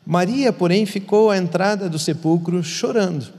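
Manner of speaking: solemn reading of the text; scripture reading. Acted. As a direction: read the gospel to the listener with care. Reads the Bible passage aloud.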